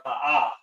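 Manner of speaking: "ha'a" as hah-AH; pronounced "ha'a". Shown as a demonstration. Teacher gives the word to repeat, sounding out "ha'a". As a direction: model "ha'a" as two open syllables. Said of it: "It's pronounced".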